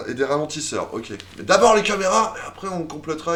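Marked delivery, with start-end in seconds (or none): 1.4-3.3 sarcastic. Pretend. Mocking the mayor's plan.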